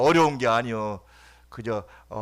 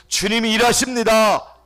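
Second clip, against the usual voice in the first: higher, louder proclamation; preaching climax; 8 semitones higher, 6 dB louder than usual. Acted. Pastor proclaiming to congregation, higher and louder. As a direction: proclaim it to the whole church.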